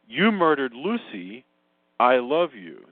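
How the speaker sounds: slow, evenly weighted line reading; mock reading of a film line. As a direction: deliver both sentences slowly, as two separate statements. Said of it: "she doesn't say it like that".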